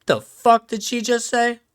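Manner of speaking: high, indignant; offended deity voice. Retold or imitated. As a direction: act outraged. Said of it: "Jesus is like".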